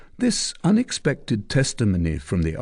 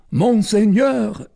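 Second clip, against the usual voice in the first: much higher, louder, slow call; deferential soldier; 13 semitones higher, 6 dB louder, slower than usual. Acted. Soldier answering the commander, deferential. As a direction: report to your lord.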